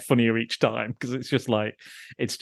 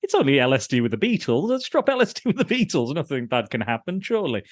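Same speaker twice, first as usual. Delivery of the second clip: mock naive character; 3 semitones higher than usual. Podcast host quoting the character about LSD with a band, breezy. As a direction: sell the bad idea innocently. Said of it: "He's like".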